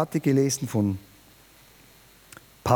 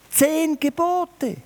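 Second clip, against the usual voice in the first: much higher and slow, triumphant; emphatic punchline; 13 semitones higher, much slower than usual. Acted. Preacher contrasts the Bible with the EU rules, emphatic and triumphant. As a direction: land it as the big reveal.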